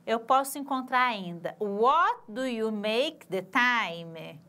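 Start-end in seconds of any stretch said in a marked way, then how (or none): 1.6-4.4 slow, careful model sentence; slow English demo. Shown as a demonstration. Teacher modeling the word order for students, slow and clear. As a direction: spell out each word slowly for the class. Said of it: "Com o verbo to do aqui".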